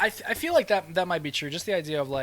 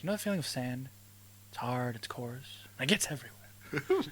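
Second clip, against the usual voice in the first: Anakin; 4 dB quieter than usual. Retold or imitated. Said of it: "go Anakin on that".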